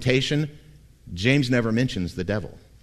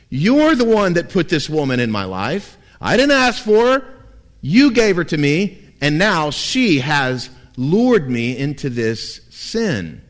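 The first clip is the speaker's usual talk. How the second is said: accusing God; 3 semitones higher, 4 dB louder than usual. Retold or imitated. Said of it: "who does he shift the blame to".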